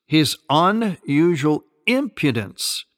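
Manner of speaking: UNUSUAL drawn out and stressed; slow, weighty stress on "unusual impudence"; emphatic repetition. Real, not acted. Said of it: "I emphasize the word".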